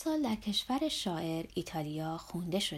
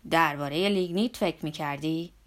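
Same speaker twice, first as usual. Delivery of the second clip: hesitant question; 4 semitones lower, 6 dB louder than usual. Acted. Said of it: "با تردید پرسید".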